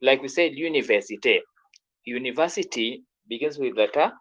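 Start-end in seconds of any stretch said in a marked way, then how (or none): 0.5-1.4 "université" in French, starting "lyu-", ending "-té"; French pronunciation. Shown as a demonstration. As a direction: model "université" with the article L fused on.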